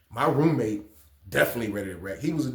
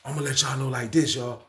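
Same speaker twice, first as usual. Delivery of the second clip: raised, hyped-up threat to the whole pod; imitating an angry inmate's threat, higher and heated; threatening warning; 7 semitones higher than usual. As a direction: warn everyone you'll fight them, pitched up and pushing. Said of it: "New York was like".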